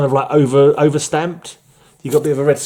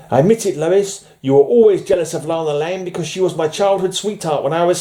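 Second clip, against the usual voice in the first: accusing Superman; 6 semitones higher than usual. Acted. Reads Superman accusing Lois.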